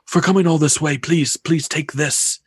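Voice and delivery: lightly voiced old mystic; gentle old seer offering a gift; fortune teller. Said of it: "and says".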